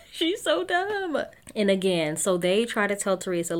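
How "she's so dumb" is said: high, drawn-out squeal through laughter; slow, high-pitched giggly exasperation; laughing disbelief. Real, not acted. Repeats it high while laughing.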